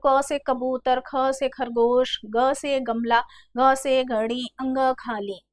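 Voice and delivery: rhythmic alphabet-primer recital; retold schoolroom recitation. Teacher recalling school alphabet lessons, schoolroom recitation. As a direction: recite each letter with its word. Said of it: "इन तीनों को पढ़ाते समय कहते थे".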